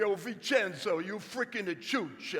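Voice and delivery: drawn-out imitation of an Italian accent. Grandfather scolding his grandson over BB guns, in an Italian accent. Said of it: "he had this Italian accent".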